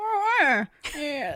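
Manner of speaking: stretched "oh", drawled high. Showing what the actor always says, in a Jimmy Stewart impression. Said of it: "that's like his Jimmy Stewart".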